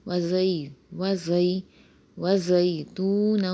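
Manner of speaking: وزیتونًا with the tanween merged, nasal ghunna; idgham with ghunna. Shown as a demonstration. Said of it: "ادغام مع الغنہ ہوگا".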